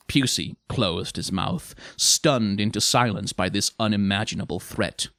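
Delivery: ordinary delivery, nothing marked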